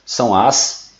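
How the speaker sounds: papilas linguais drawn out slowly; slow dictation. Shown as a demonstration. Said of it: "pra vocês copiarem".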